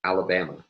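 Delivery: "Alabama" with a falling end; demonstrated statement intonation on "Alabama"; declarative tune. Shown as a demonstration. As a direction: say "Alabama" as a plain statement, pitch falling to the last syllable. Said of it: "state this word again with the English declarative tone".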